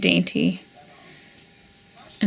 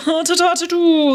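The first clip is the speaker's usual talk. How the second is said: high, hammed-up snooty American accent; 9 semitones higher, 4 dB louder than usual. Musing about snooty American accents, mock snooty. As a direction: trill it out like a stuck-up socialite. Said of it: "kinda snooty accent".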